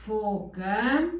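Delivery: "Foca" opening on a very long hissing f; long hissed f. Shown as a demonstration. Teacher repeats the dictated word, "Foca" with long hissed f. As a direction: stretch the f of "Foca" like an angry cat. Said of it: "el gato enojado".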